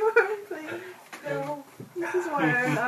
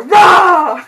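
loud playful roar; 9 semitones higher, 21 dB louder than usual. Acted. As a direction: jump out with a big loud rah. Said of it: "open the door and go".

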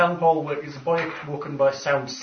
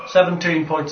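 laughing gasp; 2 semitones higher than usual. Real, not acted. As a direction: gasp then laugh through the number. GM gasps, laughing at damage.

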